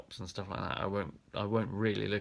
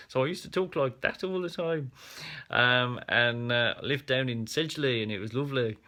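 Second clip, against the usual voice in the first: higher-pitched rich Black Country accent; 3 semitones higher, 3 dB louder than usual. Shown as a demonstration. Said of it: "rich black country accent".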